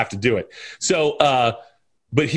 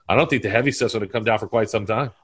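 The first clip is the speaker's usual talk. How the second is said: Carl quote; 3 semitones lower, faster than usual. Retold or imitated. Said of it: "I say it".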